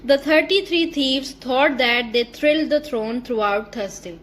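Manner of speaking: slow, deliberate tongue twister reading. Shown as a demonstration. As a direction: spell each sound out slowly. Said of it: "Read aloud the following tongue twisters". (धीरे-धीरे tongue twister)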